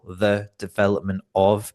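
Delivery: lightly robotic word-by-word reading; separated words, mildly mechanical. Shown as a demonstration. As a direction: read each word separately, a hint of robot. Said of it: "read like a robot".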